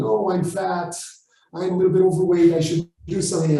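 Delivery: lightly mocking whiny complaint, fast; mock whining. Mimicking whiners who complain about their weight, a light quick whine. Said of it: "when they start whining and complaining".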